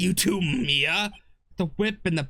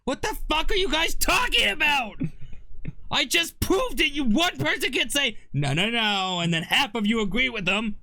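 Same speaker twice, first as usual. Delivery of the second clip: frustrated shouting; 10 semitones higher, 4 dB louder than usual. Real, not acted. Frustrated outburst at others.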